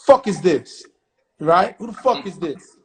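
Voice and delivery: loud, irritated retold phone answer; angrily answering a magazine writer's phone call; mock angry bark. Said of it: "I'm angry".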